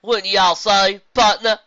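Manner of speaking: zebra attempting a country accent, loud; Applejack's accent. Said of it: "attempt to imitate Applejack's accent".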